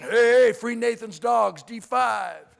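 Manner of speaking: men's room shout to the troops, hollered out; loud opening holler, then easing off; calling out. Acted. Soldiers rallying each other to free food, calling out.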